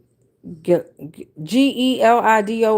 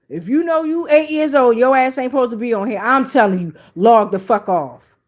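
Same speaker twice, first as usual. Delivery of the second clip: scolding; faster than usual. Real, not acted. Host telling eight-year-old viewers to log off, scolding.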